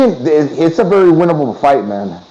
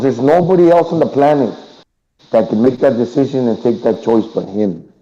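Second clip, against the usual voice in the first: muffled; 3 semitones lower than usual. Real, not acted. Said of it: "you sound, like, muffled or something".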